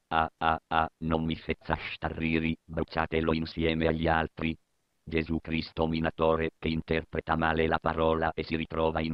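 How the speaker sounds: low cruel dictator voice; a mocking tyrant, low; deep villain voice.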